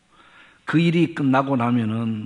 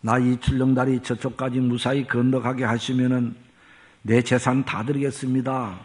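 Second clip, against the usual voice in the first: acting out a desperate plea to God; mild mock prayer cry. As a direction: imitate someone crying out in prayer, lightly. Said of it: "막 소리를 지릅니다". (소리쳐 기도하는 흉내를 가볍게)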